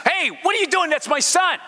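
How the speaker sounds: high-pitched mild yell of protest; acted yelling. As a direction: call out in alarm as the upset father. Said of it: "he's yelling and he's screaming".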